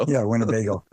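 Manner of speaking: Winnebago in a Chicago accent. Shown as a demonstration. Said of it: "In my Chicago accent".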